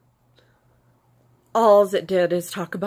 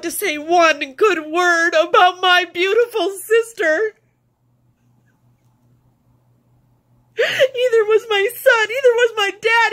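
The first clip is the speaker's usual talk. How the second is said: sobbing, far higher and louder, words breaking; 11 semitones higher, 5 dB louder than usual. Real, not acted. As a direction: weep through it, apologizing to her dead sister. Grieving sister's funeral, sobbing.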